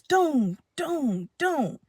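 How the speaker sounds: three separate soft "doom" thuds; imitated stomps. Papa stomped his foot three times, imitated thuds. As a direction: sound out each foot stomp, falling softly. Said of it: "he stomped his foot three times".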